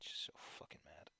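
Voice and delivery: quiet anger with no energy left; angry and drained. Real, not acted. Streamer confessing being mad and done, drained. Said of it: "just angry and tired and done".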